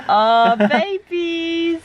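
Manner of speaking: slow, high cooing; drawn-out doting coo; overwhelmed by cuteness. Real, not acted. Cooing over the puppies.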